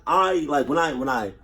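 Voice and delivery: nervous stutter, repeating words. Real, not acted. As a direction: stumble over the words. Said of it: "I'm stuttering over my fucking words".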